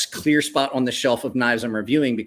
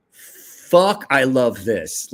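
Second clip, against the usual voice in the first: excited outburst; 3 dB louder, much slower than usual. Retold or imitated. Reacting to loving the knife.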